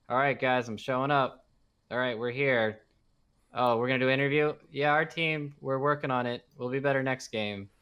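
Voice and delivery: imitating a worn-out team player; mildly burnt out. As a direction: go through the interview lines on autopilot, lightly weary. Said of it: "he looks kinda burnt out, even when you hear him talk".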